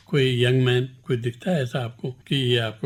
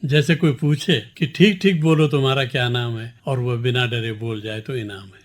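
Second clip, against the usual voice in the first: measured, deliberate poem recital; poem recitation. Acted. Poet reciting his poem to the interviewer, measured recitation. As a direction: recite each line to the listeners with clear weight.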